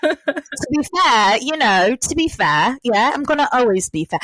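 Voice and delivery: playful mimicked British accent. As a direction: echo the phrase in a put-on British accent. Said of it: "it dissolves into my ex-husband's accent".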